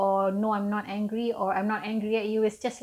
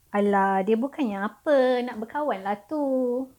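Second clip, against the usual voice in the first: brushing it off with a louder Alah; dismissive reply; 2 semitones higher, 4 dB louder than usual. Shown as a demonstration. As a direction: wave the complaint away lightly.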